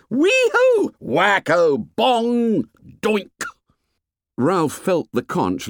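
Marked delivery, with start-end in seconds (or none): 0.1-3.4 very high, loud whoops; comic noises cried out gleefully, high; excited shouting. A narrator's reading. Boys act out punishing rule breakers, excited whoops. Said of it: "the shouting died down".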